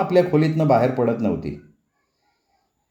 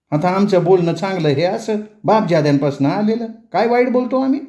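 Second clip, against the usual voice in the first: higher, outraged questioning; indignant mother-in-law; 6 semitones higher than usual. Acted. Mother-in-law mocks daughter-in-law's customs, outraged. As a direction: scoff at her customs.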